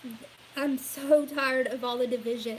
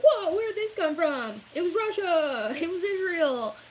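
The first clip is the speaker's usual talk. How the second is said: louder startled mock voice; mock shocked public; 4 semitones higher, 5 dB louder than usual. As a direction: play the surprised masses. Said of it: "it's gonna be like".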